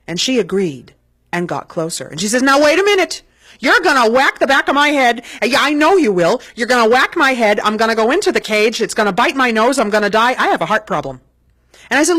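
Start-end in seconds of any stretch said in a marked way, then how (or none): 2.4-11.2 a mother sure she'll be hit, rising alarm; worried mother. Retold or imitated. Mother fretting to her son near the spider cage, loud and anxious.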